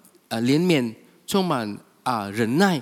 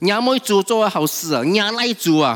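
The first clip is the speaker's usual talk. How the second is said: put-on louder scolding of a naughty child; mock-exasperated parent, louder; angry parent; 3 semitones higher, 5 dB louder than usual. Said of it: "我们很生气".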